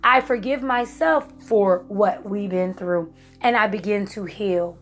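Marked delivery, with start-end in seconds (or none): 0.0-3.1 slow, deliberate forgiveness mantra; calm, slow self-affirmation. Shown as a demonstration. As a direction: say each word slowly like a healing vow. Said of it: "This is how I did it".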